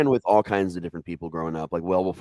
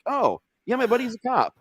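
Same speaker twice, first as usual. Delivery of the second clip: higher, breezy mock excuse; imitating Mike. Voicing Mike's lie about the cop car, high and breezy. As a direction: play it off lightly.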